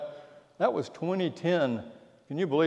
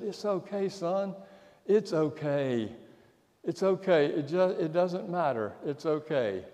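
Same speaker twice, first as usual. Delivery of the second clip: put-on soft, hushed reassurance to a crying boy; tender comfort; 3 semitones higher, 4 dB quieter than usual. Father soothing his wailing son, soft and tender. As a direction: soothe him gently, much softer.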